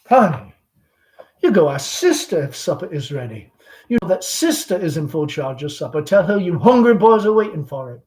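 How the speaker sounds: lightly voiced chatty Southern belle mother; Southern mother hostess. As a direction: gush over the guest like a fading belle. Amanda sending Tom off.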